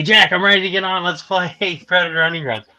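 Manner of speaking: rally a friend to play; keen, high-pitched re-enactment; retold eagerness.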